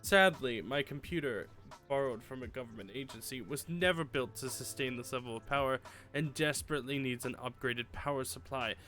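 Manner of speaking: theatrical evil mastermind voice; panto villain. Acted. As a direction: ham it up like a cartoon villain. Reads villain's email in voice.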